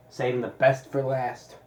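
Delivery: slow, sarcastic fanfare. Real, not acted. Reviewer introducing the ranch sauce he dreads, sarcastic. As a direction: draw it out with mock enthusiasm. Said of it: "I say that sarcastically".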